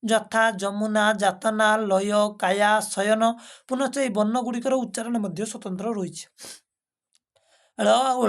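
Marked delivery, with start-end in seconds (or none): 0.0-2.8 each word spaced out slowly; slow, careful dictation of examples. Shown as a demonstration. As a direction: read ଯମୁନା, ଯାତନା, ଲୟ, କାୟା slowly as a teacher. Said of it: "ଉଭୟ ସ୍ୱତନ୍ତ୍ର ପ୍ରୟୋଗ ରହିଛି".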